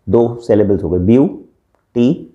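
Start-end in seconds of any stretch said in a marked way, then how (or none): 1.9-2.2 ब्यूटीफुल in separate beats, ब्यू, टी, फुल; ब्यूटीफुल divided into three parts; split into syllables. Shown as a demonstration. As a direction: pause between each syllable of ब्यूटीफुल. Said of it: "तीन बार आपके".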